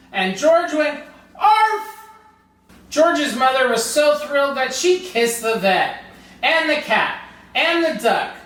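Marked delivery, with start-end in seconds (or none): 1.4-2.1 high yappy arf; dog bark. Acted. George finally barking for the vet, a high arf. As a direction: yip like a puppy.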